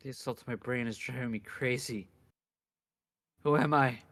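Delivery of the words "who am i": shouted. Acted. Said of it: "repeated question".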